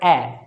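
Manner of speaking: ए as the wide "a" of cat, falling; open-mouthed vowel. Shown as a demonstration. Teacher demonstrating the first English vowel sound, open-mouthed. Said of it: "mouth का पूरा use करना".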